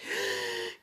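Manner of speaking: mock sobbing intake of breath; imitated crying gasp. Storyteller imitating the beaten rival on the floor, mock crying.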